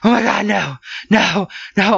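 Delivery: imitating Lacey's mild panic in the lift; retold freak-out. Imitating Lacey panicking in the stuck elevator, mildly panicked. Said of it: "she starts freaking out".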